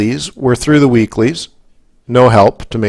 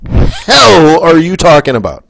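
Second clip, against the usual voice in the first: slowed, disbelieving outburst at a friend who won't vote; exasperated retort. Retold or imitated. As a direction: stretch it out in disbelief at her. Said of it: "I'm like".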